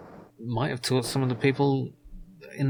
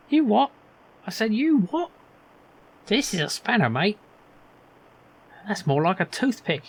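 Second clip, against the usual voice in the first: much higher, louder put-on NPC voice; indignant workman voiced high and loud; character voice; 9 semitones higher, 5 dB louder than usual. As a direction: play a brash workman calling him mate. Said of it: "I'm giving everyone the same voice".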